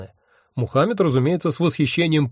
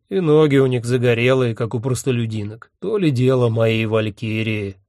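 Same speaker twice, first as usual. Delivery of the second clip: put-on disapproving character voice; lordly distaste, slowing at the end. A narrator's reading. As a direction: find fault, then draw out the comparison. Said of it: "неодобрительно сказал Один".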